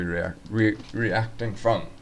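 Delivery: tripping over the words, stuttering. Real, not acted. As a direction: stumble and repeat words, stuttering. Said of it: "I'm stuttering".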